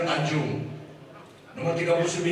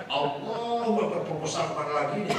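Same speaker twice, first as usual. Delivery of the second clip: prayer turning into fast worried muttering; distracted prayer. Kiai imitating a poor man praying, distracted. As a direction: let the mind wander off mid-prayer. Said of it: "Tapi orang melarat".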